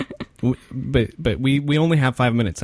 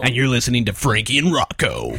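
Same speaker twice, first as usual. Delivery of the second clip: put-on frat boy voice. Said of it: "my frat boy voice".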